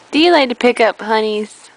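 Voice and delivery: low, fast club-bro voice; deep dude voice. Pretend. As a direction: growl it low like a party guy. Deep dude voice, then plain.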